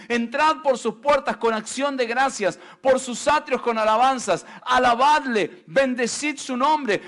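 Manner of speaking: preacher swelling into a shout; preaching a psalm, building. Acted. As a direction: build the reading up to full force.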